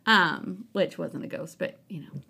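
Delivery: talking between sips of soda; while sipping a drink. Real, not acted. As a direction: speak around a sip of drink. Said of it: "Sorry, I'm drinking soda".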